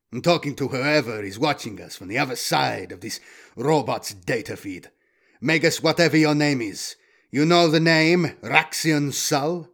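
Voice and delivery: lightly voiced confrontational hunter; hard-edged hunter. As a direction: address a hidden listener with a challenge. Voices Brill addressing the watcher.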